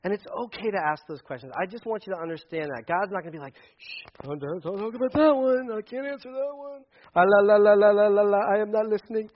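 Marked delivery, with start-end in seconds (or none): 3.8-4.4 whispered shush; hushing someone fast; mock hush. Pastor mocks God hushing hard questions in a whisper. 4.4-9.3 loud singsong la la la; childish refusal to hear; mock God covering ears. Pastor mocks a God refusing to listen, loud singsong.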